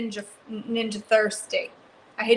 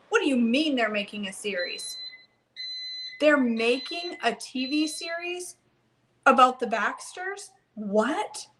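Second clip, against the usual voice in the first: astonished; 3 semitones higher than usual. Real, not acted. Reacting to viewer news, astonished.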